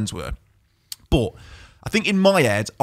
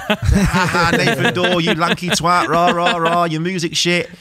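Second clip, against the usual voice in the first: lightly voiced jeering fan, laughing a bit; a hint of a gloating fan taunting him; mocking online haters; 4 semitones higher, 3 dB louder, slower than usual. Quoting Birmingham City fans on Twitter, light mocking jeer.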